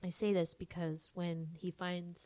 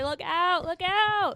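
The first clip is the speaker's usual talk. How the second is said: loud warning; 11 semitones higher, 11 dB louder, slower than usual. Pretend. Warning everyone of a sneeze.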